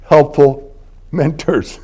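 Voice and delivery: slow, ironic air quotes; sarcastic quote. Real, not acted. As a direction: say it with scare quotes. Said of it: "from, quote".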